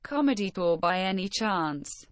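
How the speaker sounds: computer text-to-speech; flat synthetic read; robot voice. Acted. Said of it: "the robot voice".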